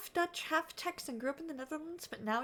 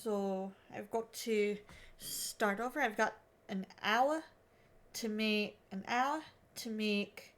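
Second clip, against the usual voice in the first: put-on low, halting stab at an Aussie accent; Australian accent attempt; 3 semitones lower than usual. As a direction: keep trying Australian, repeating words to fix the vowels. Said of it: "five minutes of attempting the Australian accent".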